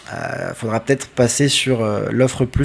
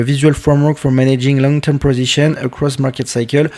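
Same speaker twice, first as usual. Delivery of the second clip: English read aloud with a French accent; real French accent on English words. Real, not acted. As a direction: read the English title as a French speaker would. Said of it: "Désolé pour mon accent anglais".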